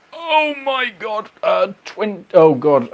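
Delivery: high, slow, drawn-out exclamation; overwhelmed oh my god. Real, not acted. Asked how many vehicles are in the shed, stretched high exclamation. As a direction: sound swamped by the question.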